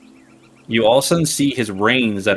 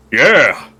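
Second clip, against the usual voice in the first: short excited horse cry; a pleased little yeah from the horse; 3 semitones higher, 8 dB louder than usual. Acted.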